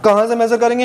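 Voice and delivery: ordinary talk, nothing marked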